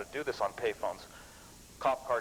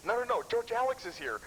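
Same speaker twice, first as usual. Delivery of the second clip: high, urgent mock panic; panicky Steve; 9 semitones higher than usual. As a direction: imitate a friend sure they're caught, pitched up. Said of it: "He can get pretty hyper".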